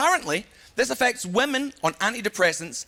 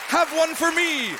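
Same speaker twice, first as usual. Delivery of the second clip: jovial doctor; 9 semitones higher, slower than usual. Retold or imitated. Doctor imagined.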